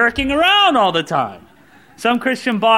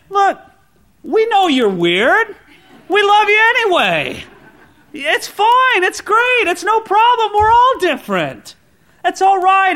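cheerful reassurance; 8 semitones higher, 3 dB louder than usual. Acted. Reassuring the odd ones in church.

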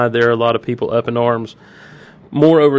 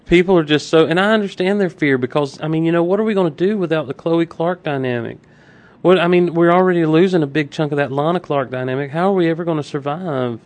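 mock worried, slightly raised pitch; sarcastic; 4 semitones higher than usual. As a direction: pretend the loss is a tragedy. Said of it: "I love your sarcasm".

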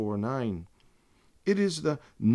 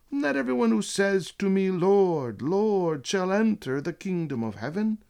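declaimed scripture; 6 semitones higher, 4 dB louder than usual. Acted. Declaiming words of Christ from scripture.

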